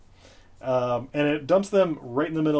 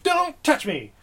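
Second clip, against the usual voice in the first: wisecracking senator; 6 semitones higher, 3 dB louder, faster than usual. Retold or imitated. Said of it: "making wisecracks like".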